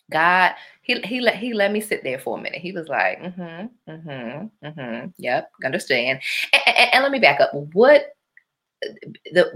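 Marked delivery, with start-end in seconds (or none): 3.2-6.2 very soft, patient hums; quiet humouring. Retold or imitated. God letting her sit there a minute, quiet humouring. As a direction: hum along softly, letting them talk.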